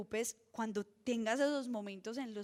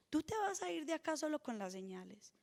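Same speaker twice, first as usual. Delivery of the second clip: breathy preacher's whisper; 3 semitones higher, 6 dB quieter than usual. Real, not acted. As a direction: lean in and ask it in a whisper. Preacher questions congregation intimately. (susurrando la pregunta)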